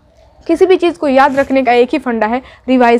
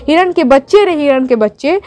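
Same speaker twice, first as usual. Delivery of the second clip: poem recitation. Shown as a demonstration. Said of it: "यानी कि हिरन के बच्चे".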